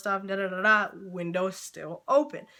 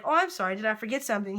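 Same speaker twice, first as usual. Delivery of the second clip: imagined polite apology; faster than usual. Retold or imitated. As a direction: play the apologetic server he should have been. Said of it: "instead of opening the window up and being like".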